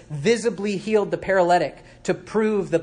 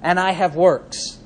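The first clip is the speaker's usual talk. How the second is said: voicing an opponent; 2 semitones higher, 7 dB louder, slower than usual. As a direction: drag out "You have faith" like a smug objector. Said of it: "He says in verse eighteen".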